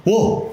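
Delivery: mock startling "boo"; 깜짝 놀래키는 소리. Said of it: "하고 놀래키면". (놀래키듯 워!)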